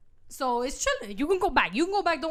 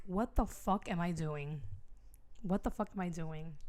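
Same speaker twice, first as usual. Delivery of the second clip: low, quiet, slow disbelief; dismayed muttering; 6 semitones lower, 10 dB quieter than usual. Acted. Bride to herself on her wedding day, dismayed mutter.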